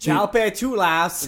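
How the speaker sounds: TCHOUPITOULAS said slowly as "shall-pay-too-lahs"; GPS mispronunciation. Retold or imitated. Mimicking GPS trying street name, TCHOUPITOULAS slowly mangled. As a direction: drag out each wrong syllable of TCHOUPITOULAS. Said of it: "hearing a G P S try to say".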